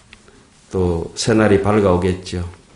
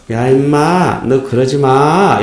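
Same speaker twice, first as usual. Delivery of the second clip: slow, higher, gentle rebuke; dignified scolding; 4 semitones higher, much slower than usual. Shown as a demonstration. Monk demonstrating a polite way to scold, gently. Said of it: "품위 있게 욕을 해야지".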